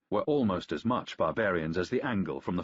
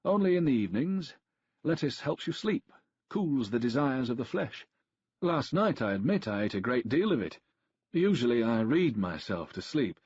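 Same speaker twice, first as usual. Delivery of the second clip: Tacitus explaining; 4 semitones higher, 3 dB louder than usual. A narrator's reading. Tacitus solemnly explains superstition.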